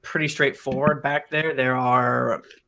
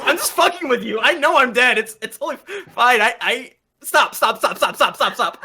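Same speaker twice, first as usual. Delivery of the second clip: King Titus Harper; 9 semitones higher, 4 dB louder than usual. Acted. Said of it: "And then he goes".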